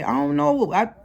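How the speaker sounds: a hint of a worried mother saying I don't know; imitating mama. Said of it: "I heard my mama say".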